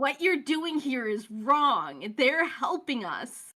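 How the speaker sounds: drawn-out protest on someone's behalf; pleading. Acted. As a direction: plead earnestly, leaning on each word. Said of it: "as you start to plead".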